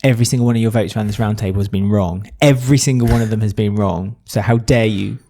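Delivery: defending Cara in a low, firm imitation; imitating Dom. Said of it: "And Dom was like".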